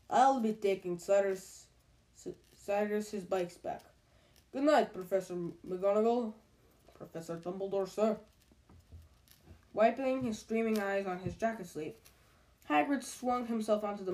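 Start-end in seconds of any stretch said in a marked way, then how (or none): 0.1-8.2 muffled voice. Acted. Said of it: "said Hagrid in a very muffled voice".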